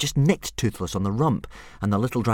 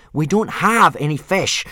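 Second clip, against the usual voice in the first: raised, loud exasperation; through gritted teeth; 8 semitones higher, 8 dB louder than usual. A narrator's reading. Boy repeats himself to the dragon, loud and exasperated. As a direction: force it out, patience running out. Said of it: "repeated Hiccup from between gritted teeth".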